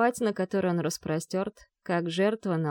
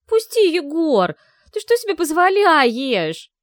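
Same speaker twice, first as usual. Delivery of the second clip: slow, much higher, louder protest; indignant outcry; 10 semitones higher, 10 dB louder, slower than usual. A narrator's reading. Vi held tight by Muromets, indignant shouting. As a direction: struggle against his grip.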